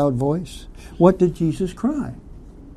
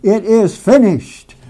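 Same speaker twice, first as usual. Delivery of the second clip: raised, slowed quoted cry; loud, emphatic declaration pitched up; crying aloud; 6 semitones higher, 6 dB louder, slower than usual. Acted. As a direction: call it out high and loud, slowly. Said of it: "when he cried aloud".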